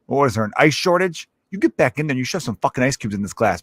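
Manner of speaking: mildly irate mock customer rant; indignant customer. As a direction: act out a put-out bar customer, lightly heated. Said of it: "you don't wanna talk like that".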